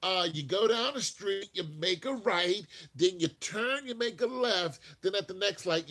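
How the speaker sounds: mock German giving directions; imitating a German local. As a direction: rattle off directions like a helpful local. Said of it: "they said".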